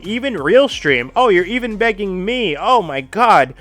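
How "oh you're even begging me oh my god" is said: drawn-out sarcastic thanks, louder; mock gratitude. Streamer mocking the woman who begs everyone, slow sarcastic thanks. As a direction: sneer the thanks slowly.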